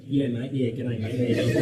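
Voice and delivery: exaggerated Aussie twang, laughing through it; hammed-up Australian accent. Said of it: "I like doing the Australian accent".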